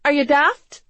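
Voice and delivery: high, loud exasperated challenge; demanding. A narrator's reading. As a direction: demand it as if he's an idiot. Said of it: "she demanded".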